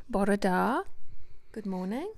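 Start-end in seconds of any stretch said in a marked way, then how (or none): 0.1-0.8 "Bore da" in Welsh, rising on "da"; Welsh pronunciation. Shown as a demonstration. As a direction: model Welsh "Bore da", lifting the ending. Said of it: "Should we do some Welsh words?".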